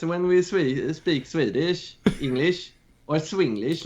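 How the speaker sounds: playful self-impression in Swedish-accented English; turbo Swedish accent. Shown as a demonstration. Guest parodying his own speech on request, turbo Swedish accent. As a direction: lay on the Swinglish, Swedish accent heightened. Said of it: "sounds a little bit more like this".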